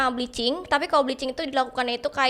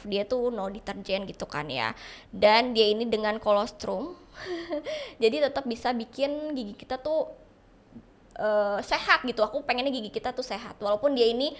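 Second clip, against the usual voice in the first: talking around a retainer in the mouth; slightly slurred r sounds from a retainer; lisping with retainer; 3 dB quieter than usual. Real, not acted. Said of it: "aku ngomongnya agak cadel, karena itu aku lagi pakai retainer".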